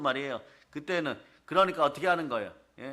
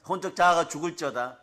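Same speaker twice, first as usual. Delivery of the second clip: 자아가 stressed in a proclaiming tone; preacher's proclamation of 죽을지어다; solemn declaration. Real, not acted. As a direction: pronounce it like a decree. Pronouncing the declaration.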